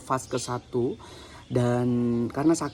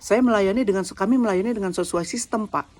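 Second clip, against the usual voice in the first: mock grumbling; 5 semitones higher than usual. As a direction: imitate the clerk's defensive chatter. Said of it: "ternyata ibu tuh ngoceh".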